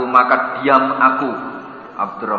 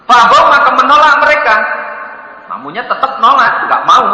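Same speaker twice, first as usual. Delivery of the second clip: louder, higher, with a laugh; laughing narration; 8 semitones higher, 5 dB louder than usual. A narrator's reading. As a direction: tell the refusal with amusement. Tamu tetap menolak. (narasi lantang sambil tertawa)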